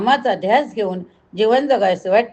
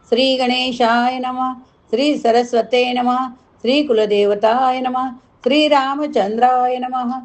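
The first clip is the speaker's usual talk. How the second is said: mantra recitation; 3 semitones higher than usual. Acted. Opening Sanskrit invocation recitation.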